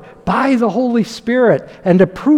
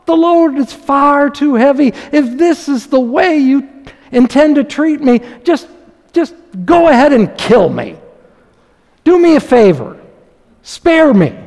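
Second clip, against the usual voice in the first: aggravated Moses; 4 semitones higher than usual. Acted. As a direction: build from hurt plea to exasperated outburst. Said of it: "Moses was also very aggravated".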